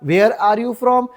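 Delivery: slow, measured repeat for learners; slow teaching model. Shown as a demonstration. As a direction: model the question word by word. (शिकवण्यासाठी सावकाश)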